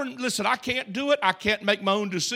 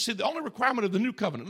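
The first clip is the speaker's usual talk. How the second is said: rushed aside; much faster than usual. Shown as a demonstration. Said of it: "listen, this is powerful to me".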